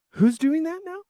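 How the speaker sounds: whispered in amazement; awed whisper. Real, not acted. Wrapping up the episode, stunned by brain chips, whispering. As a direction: breathe it out, stunned. Awed question after mind-blown remark.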